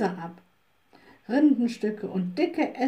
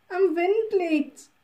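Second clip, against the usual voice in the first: put-on slow, raised old woman's voice; old wood woman, slow and higher; 8 semitones higher, 3 dB louder, slower than usual. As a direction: lean on Wind and draw it out. Wood woman answers the witch.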